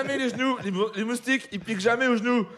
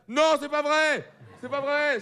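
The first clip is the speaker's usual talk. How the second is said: higher, slow outraged non; hammed-up astonishment; mock disbelief; 5 semitones higher, slower than usual. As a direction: play fake shock at the news. Mock disbelief at fraud crackdown.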